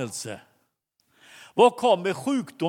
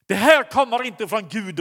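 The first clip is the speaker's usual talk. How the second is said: loud roar of rebuke, pitched up; 3 semitones higher, 5 dB louder than usual. Retold or imitated. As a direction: roar it back at the doctor. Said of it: "röt han till". (pastorn ryter till mot doktorn, högt och ilsket)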